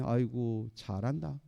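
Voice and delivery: low, soft sarcastic praise; mock them under your voice. Devil jeering at a believer whose life fell apart, mocking. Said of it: "이 조롱하는 거예요".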